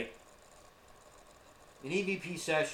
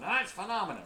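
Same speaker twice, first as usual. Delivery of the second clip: mock know-it-all son correcting "phenomena", higher; 7 semitones higher, faster than usual. Dad mimicking son's correction of "phenomena", mock pedantic. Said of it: "Listen to my son".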